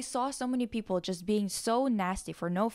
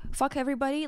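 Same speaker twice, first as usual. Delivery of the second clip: ordinary talk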